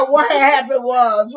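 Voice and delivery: loud, drawn-out mock Black American vernacular. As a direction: put on Black vernacular, slow and emphatic. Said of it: "we gonna go colored on you".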